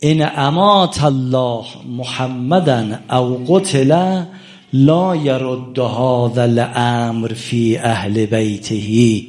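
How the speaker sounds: slow, drawn-out chanted Arabic; solemn Arabic recitation. Retold or imitated. Preacher reciting the conspirators' pact, slow and solemn. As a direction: intone the written pact slowly like scripture. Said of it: "اینها این مطلب رو نوشتن".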